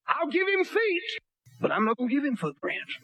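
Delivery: voice of God. Retold or imitated. Voicing God's reply.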